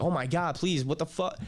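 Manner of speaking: half-performed frantic plea; mock panicked scream. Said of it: "screaming like".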